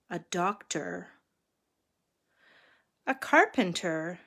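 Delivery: measured picture-book reading; story narration. A narrator's reading. Reader telling children of three travelling monks, story narration. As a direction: read a children's story aloud.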